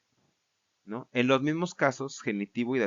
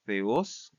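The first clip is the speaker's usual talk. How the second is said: "Theos" as the-OS, accent on OS; stress on last syllable. Shown as a demonstration. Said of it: "acento agudo en la última sílaba".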